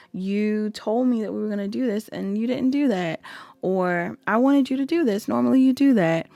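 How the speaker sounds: half-hearted whining as the hurt one; whiny complaint. Retold or imitated. Imitating a partner whining about a missed call, mildly. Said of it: "gives me whiny vibes".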